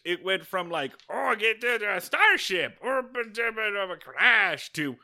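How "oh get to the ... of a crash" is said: mock an Ewok stumbling through English; Ewok broken English. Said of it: "weird amount of, of English".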